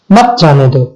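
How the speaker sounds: "مت جانے دو" as one separate phrase; مت joined to جانے دو. Shown as a demonstration. Teacher completing the marked sentence, "مت جانے دو" in one piece. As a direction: keep "مت" tight with "جانے دو", no break. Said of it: "اس کے بعد ہم نے وقفہ کی علامت لگا دی".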